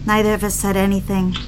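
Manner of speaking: calm first-person audiobook narration; story narration. A narrator's reading. Wife recounting the night swim to listeners, calm narration. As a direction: tell it as an intimate memory, evenly paced.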